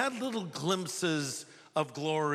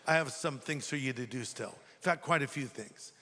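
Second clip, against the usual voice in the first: the Lord, gently; 5 semitones lower than usual. Acted. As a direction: let him down easy, low and hushed. The Lord answers Paul.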